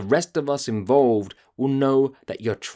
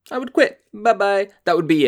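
higher, exasperated; voice going high; 9 semitones higher, 4 dB louder than usual. Real, not acted. Ranting podcaster, voice climbing in outrage. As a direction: let your voice climb in disbelief. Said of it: "My voice is going so high".

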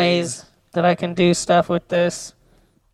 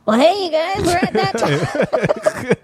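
robot voice; 9 semitones higher than usual. Shown as a demonstration. Robot voice effect.

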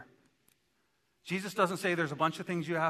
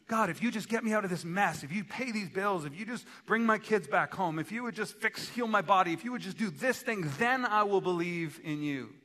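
raised, urgent pleading prayer; acted bargaining plea; 5 semitones higher, 3 dB louder than usual. Acts a desperate bargaining prayer.

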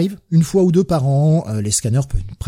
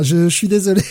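trying not to laugh; 6 semitones higher, 4 dB louder than usual. Real, not acted. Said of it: "bon, ça s'entendait".

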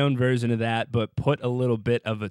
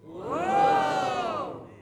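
a sudden, very high shout of surprise; surprised whoa. Real, not acted. Co-host reacts to the name with a high surprised whoop.

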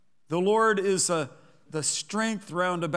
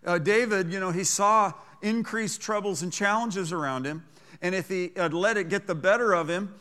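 normal talking voice

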